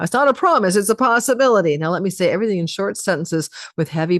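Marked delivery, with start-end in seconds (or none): 0.0-1.8 mock AI voice. Shown as a demonstration. Astrologer mocking AI-speak to viewers, in mock robotic voice. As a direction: parrot it like a chatbot disclaimer. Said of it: "I sound like A I right now".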